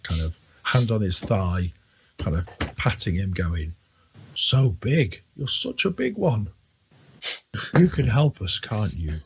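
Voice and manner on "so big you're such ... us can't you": put-on fawning drunk. Drunk patting the orc's thigh.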